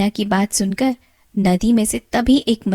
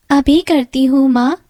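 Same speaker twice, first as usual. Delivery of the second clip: crying; 5 semitones higher, 6 dB louder than usual. Acted. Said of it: "Meena रोते हुए".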